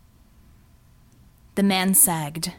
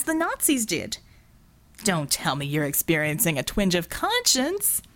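lightly voiced mocking villain; 2 semitones higher than usual. Verdigris taunting guilty Singh, mock disappointment. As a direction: tease him like a bored aristocrat.

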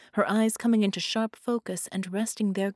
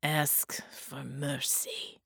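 whispered demand; 4 semitones lower, 6 dB quieter, much slower than usual. A narrator's reading. Bela torments his captive.

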